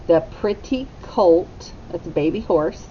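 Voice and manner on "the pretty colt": slow model phrase. Shown as a demonstration. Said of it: "Echo me".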